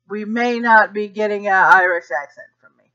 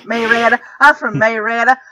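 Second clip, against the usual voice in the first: Southern drawl; faster than usual. Retold or imitated. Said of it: "very thick Southern drawl".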